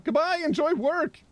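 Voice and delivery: high, bright farewell call; high sing-song goodbye. Real, not acted. Streamer sends off a viewer going to work, sing-song.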